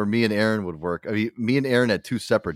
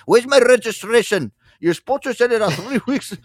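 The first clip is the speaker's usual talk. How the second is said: mock irate customer; 13 semitones higher, 5 dB louder than usual. Angry customer demanding their registration by phone, high and loud. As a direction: gripe like an impatient customer on the phone.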